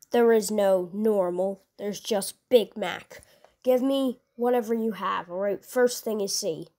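a hint of an impatient brute ordering food; understated low growl of a demanding customer; lightly voiced Doomslayer. Gruff customer voice held.

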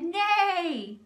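loud, high mock neigh; goose neighing with all her might. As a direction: neigh as hard as you can. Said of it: "with all of her might".

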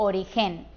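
"origen" with the weight on GEN; stress on last syllable. Shown as a demonstration. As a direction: push the final GEN of "origen". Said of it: "¿Qué diríamos?". ("origen" con acento en la última sílaba, GEN)

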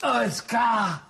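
calling out. Acted. Calling the dog from afar.

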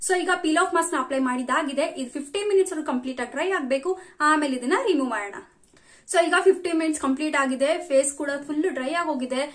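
stiff cheeks, limited mouth movement; speaking with tight facial skin; face mask drying on skin. Real, not acted. Seen 0: Glossy mask covers face throughout; she says it's too tight to talk.

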